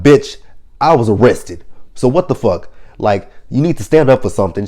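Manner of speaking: imitating a sassy scolding; mock scolding. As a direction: snap back at her like Pray Tell would. Pray Tell scolding Elektra, retold.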